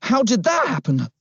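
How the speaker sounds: high-pitched, winded policeman; panting. A narrator's reading. Policeman gasping for breath beside the boy, panting. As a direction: ask as if short of breath. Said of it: "he panted".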